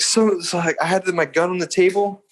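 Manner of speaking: nervous liar. Retold or imitated. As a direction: stumble through a made-up story, mildly panicky. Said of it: "I'm, like, breathing heavily".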